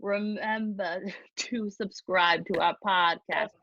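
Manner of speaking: put-on slow, drawn-out Boston accent, lightly done; a shaky attempt at a Boston Rob accent; an amateur Boston Rob impression while reading the podcast outro. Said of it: "with my Boston Rob accent".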